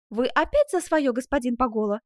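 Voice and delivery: lightly coy, unhurried scolding; affectionate mock reproach. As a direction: chide him without real anger. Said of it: "скорее даже ласково".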